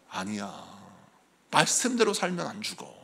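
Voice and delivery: low, soft, steady father; calm father's reply. Retold or imitated. Father calmly answers his frightened son. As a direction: reassure the boy, unshaken.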